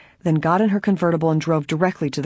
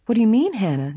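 fearful; 6 semitones higher than usual. A narrator's reading. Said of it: "Nancy asked fearfully".

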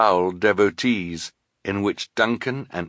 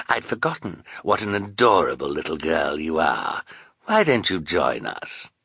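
butter her up; oily Count Olaf. Acted. Olaf flatters Carmelita.

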